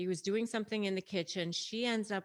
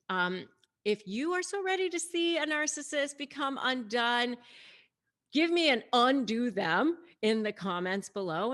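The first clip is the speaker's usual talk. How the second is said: a louder, brighter sign-off asking viewers to subscribe; upbeat outro pitch; 3 semitones higher, 4 dB louder than usual. Acted. Vlogger urging viewers to like and subscribe, upbeat promo read. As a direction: sell the channel with energy. Channel outro call to action.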